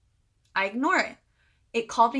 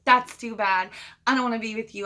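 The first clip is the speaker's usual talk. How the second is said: louder, firm angry rejection; retold anger; 5 dB louder than usual. Narrator retelling her rejection of Dan, firmly angry. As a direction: shut him down with mild anger. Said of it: "so, so angry and so hurt".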